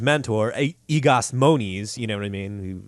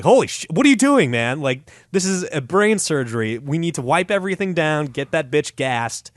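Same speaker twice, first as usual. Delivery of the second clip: shocked licensed doctor; freaked-out colleague; 2 semitones higher than usual. Retold or imitated. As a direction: panic at the sight.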